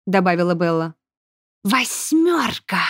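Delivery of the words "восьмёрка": slow sighing word; resigned sigh. A narrator's reading. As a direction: sigh it out, giving in. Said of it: "вздохнул красноглазый полудемон". (со вздохом, медленно)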